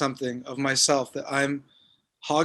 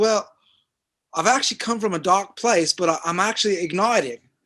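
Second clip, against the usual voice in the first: terrible put-on South African accent, pitched up; 5 semitones higher than usual. Retelling what a man at a party said: terrible South African accent. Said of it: "my terrible South African attempt".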